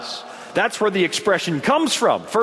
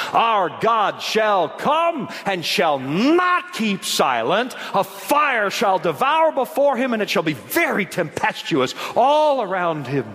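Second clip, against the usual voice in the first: slow, heavily emphasized declamation; scripture proclamation; slower than usual. Real, not acted. Preacher reads Psalms to congregation, slow emphatic proclamation. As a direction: lean dramatically into the key words.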